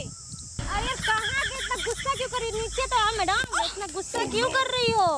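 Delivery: a hint of a pleading flirt. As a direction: coax her to calm down, playful.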